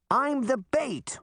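slow, high calling retort; shouted. A narrator's reading. Boy on the road to hidden Sabrina, drawn-out high shout. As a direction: call it out high, stretching the words. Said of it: "he shouted".

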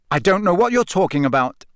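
cold denial, pitched high. A narrator's reading. Harry lies to Snape, coldly. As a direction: deny it with a touch of indignant chill. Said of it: "Harry lied coldly".

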